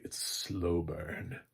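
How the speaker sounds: "slow burn" drawn out slowly; complimentary. Shown as a demonstration. Reviewer softening a criticism into praise, slow and complimentary. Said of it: "how we say it complimentary".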